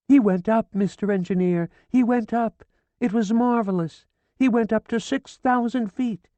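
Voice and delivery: high, loud, feverish insistence; frantic swearing. A narrator's reading. Hysterical widow swearing to the police, frantic. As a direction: swear it with wild urgency.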